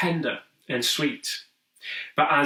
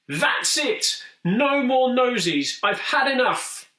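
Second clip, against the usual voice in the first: high, raised exasperated protest; fed-up outburst; 8 semitones higher than usual. Acted. Monster giving up on noses after hitting the wall. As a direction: throw up your hands, you've had enough.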